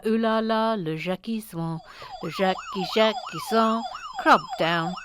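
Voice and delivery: playful French lilt on a name; mock French accent. Host teasing a viewer's name, mock French accent. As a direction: put on a silly French accent.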